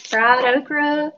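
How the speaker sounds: slow, stretched fried okra; a playful slow savouring of fried okra; drawn out. Pretend. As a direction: draw out okra like a Southern drawl.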